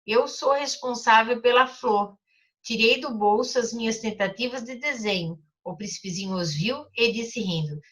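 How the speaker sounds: put-on storybook reading for children; teacher reading a story aloud. A narrator's reading. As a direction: read the story gently to the class. Reads the Little Prince aloud.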